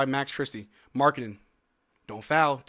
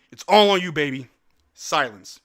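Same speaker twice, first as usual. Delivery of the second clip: ordinary talk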